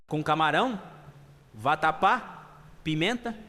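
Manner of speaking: item-by-item questions, each rising; mildly polite, measured list of questions; polite confirming. Acted. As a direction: check each ingredient courteously. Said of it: "educadamente confirma".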